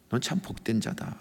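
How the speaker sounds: soft, low voice of God, imitated; hushed, tender pronouncement, lightly acted; gentle divine blessing. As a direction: speak a quiet, low affirmation. God's blessing repeated by preacher.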